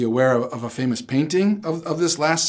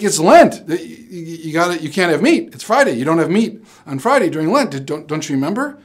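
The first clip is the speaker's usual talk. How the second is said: lecturing coworker; 3 semitones higher, 4 dB louder than usual. Retold or imitated. Coworker lectures about meat on Friday.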